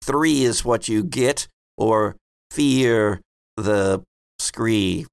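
slow, solemn prophetic chant; rhyming oracle. Acted. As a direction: intone the prophecy like a seer. Prophet rhymes again.

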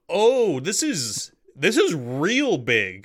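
a sudden high gasp of awe, then slowing down; awed surprise. Retold or imitated. Facing a massive creature in person, awestruck. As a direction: react as if a huge beast just hit you. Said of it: "you're like".

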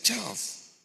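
high, loud hail of a name; acted cry of recognition; startled call. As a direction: call out to a friend in disbelief. Calls to friend found in hell.

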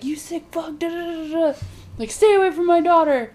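high-pitched imitation of outrage; mock angry outburst. Father warning off the neighbor, imitated anger.

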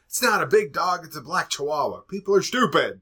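replayed mild exasperation; exasperated. Exasperated driver grumbling, retold.

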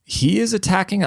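high, laughing echo of the clip; laughing mock repeat. Real, not acted. Host repeating politician's claim, laughing in disbelief. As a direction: scoff at the clip through a laugh.

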